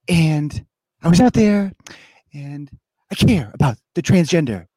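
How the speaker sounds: lightly voiced, whiny Joe Kennedy impression; mocking Joe Kennedy. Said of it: "he talks like this".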